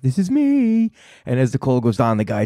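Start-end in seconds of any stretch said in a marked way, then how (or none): 0.0-0.9 high eager mock answer; excited and happy. Host imitating the tuner's happy phone answer, high and eager. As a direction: bounce up high like a happy guy. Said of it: "He's all excited and happy".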